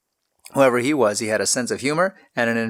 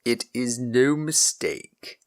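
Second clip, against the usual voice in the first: grim; 3 dB quieter, much slower than usual. A narrator's reading. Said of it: "replied Lord Cobham grimly".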